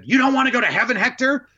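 high incredulous nun voice; a sister gently shocked; nun's question. Retold or imitated. Sister Rosanna asking Hector in class, high and incredulous. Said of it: "she said".

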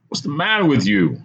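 high-pitched, exasperated plea; pleading. A narrator's reading. Narrator pleads with the madman on the balcony, pleading. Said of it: "I pleaded".

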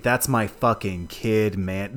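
slow, laid-back hippie drawl; lazy slow hippie, mellow. Retold or imitated. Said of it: "so hippie in the delivery".

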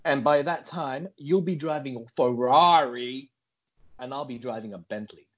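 hammed-up American big talk; put-on American accent.

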